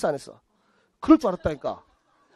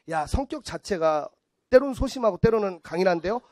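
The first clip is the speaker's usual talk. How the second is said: mock palm reader. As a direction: ponder it lightly like a palm reader. Acting palm reader's vague reading.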